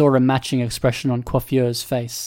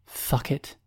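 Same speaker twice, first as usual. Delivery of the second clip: whispered under breath; 8 dB quieter than usual. A narrator's reading. Byron cursing to himself, whispered under his breath. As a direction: mutter it softly under your breath. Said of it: "Byron whispered under his breath".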